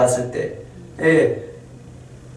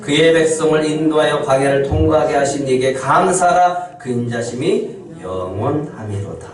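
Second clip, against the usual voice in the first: scripture reading. Shown as a demonstration. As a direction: read the verse again, ending gently. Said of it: "십육 절 다시 한번 읽겠습니다".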